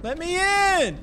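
fake reaction. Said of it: "do a fake reaction for the video".

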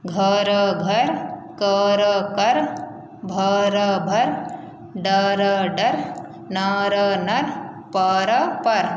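सिखाने वाला धीमा उच्चारण अभ्यास, अक्षर जोड़कर शब्द; बच्चों को अक्षर मिलाकर शब्द बोलना सिखाओ; phonics drill. Shown as a demonstration. Teacher drills letter-sound words. (बच्चों के लिए धीमा ध्वनि अभ्यास)

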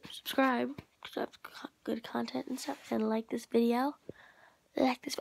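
muffled, face in the pillow; talking into a pillow. Real, not acted. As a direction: speak into a pillow. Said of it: "I'm, like, talking to the pillow".

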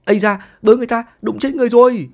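high, loud hammed-up yelp of pain; fake cry of pain. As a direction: wail like you've just been run over, overacting it. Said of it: "ôm người la lên đau đớn".

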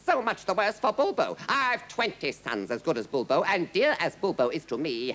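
high, scornful outburst; livid king. A narrator's reading. King disowning his captive son, livid. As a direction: rage with cold contempt for the threat. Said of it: "now livid with rage".

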